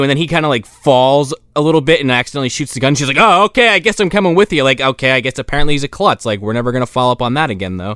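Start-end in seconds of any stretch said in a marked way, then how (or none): 3.2-4.6 mock resigned woman. Woman voiced resigned, high.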